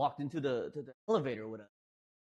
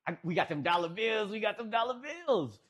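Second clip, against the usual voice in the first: mild mock holler, rising higher on the repeat; imitated yelling; 4 semitones higher than usual. Retelling what Huck was screaming, mild mock yell. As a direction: imitate a rowdy yell without full volume. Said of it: "'cause Huck was yelling, uh, screaming".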